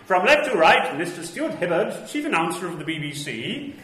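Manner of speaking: loud 1930s newsreel announcer; newsreel narrator. Pretend. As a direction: boom it like a Pathé newsreel. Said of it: "I'm gonna lapse into my Pathé newsreel voice".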